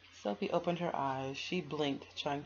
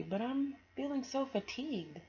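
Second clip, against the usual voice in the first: put-on high, weary little girl; tired girl voice; 9 semitones higher than usual. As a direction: sigh out how worn out you are.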